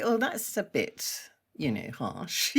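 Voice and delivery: hurt inner reaction. Retold or imitated. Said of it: "inside he'd be".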